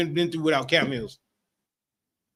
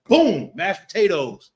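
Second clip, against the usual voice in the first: slow, louder, grand serving call; mock grand serving; 3 semitones higher, 6 dB louder, slower than usual. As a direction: present the potatoes with a slow flourish. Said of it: "He be like".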